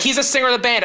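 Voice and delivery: a fan spelling out the obvious; mimicking teen girl. Teen fans explain the band to him, mock girly tone.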